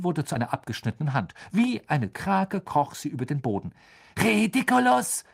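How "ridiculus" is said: high shouted spell; Dean. A narrator's reading. Dean casting at the severed hand, calling out. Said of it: "rief Dean".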